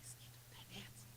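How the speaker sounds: very soft, low near-whisper; voice of God. Retold or imitated. God tells the mother it concerns her heart, whispered. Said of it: "die Stimme Gottes".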